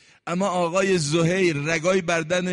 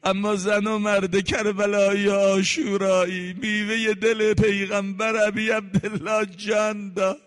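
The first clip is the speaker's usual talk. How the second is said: slow, crying-out lament; lamenting preacher; 2 semitones higher than usual. Acted. Preacher mourning Zuhayr's death to the crowd, slow lament. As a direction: call out to God in grief.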